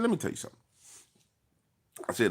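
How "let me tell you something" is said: offensive retort. Retold or imitated. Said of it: "I was real offensive".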